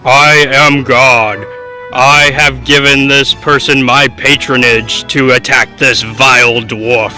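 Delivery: slow, grave god voice; booming voice from sky. Acted. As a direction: speak slowly like a deity. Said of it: "another booming voice".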